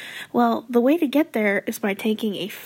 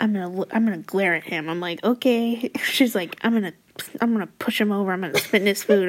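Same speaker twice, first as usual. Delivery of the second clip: salty friend; 2 semitones lower, faster than usual. Retold or imitated. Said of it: "so salty in my life".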